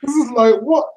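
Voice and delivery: mock his giddy voice note; imitating excited friend. Retelling a friend's thrilled voice note about the atmosphere, excited. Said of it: "He was so excited".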